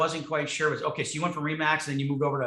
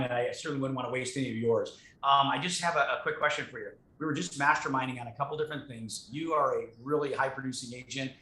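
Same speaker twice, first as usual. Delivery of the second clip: respectful flattering caller. Shown as a demonstration. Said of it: "let me show you".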